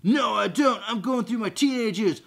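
put-on teenage Carl. Carl answers the zombie, mock teenage exasperation. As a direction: play an exasperated teen.

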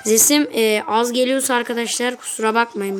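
deliberately loud commentary; speaking up loudly. Real, not acted. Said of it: "bağırarak konuşmaya çalışıyorum".

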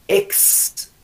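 "X" sin voz, como "ks"; sonido fricativo. Shown as a demonstration. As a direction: alarga el siseo de "X". ("X" como puro ruido de aire)

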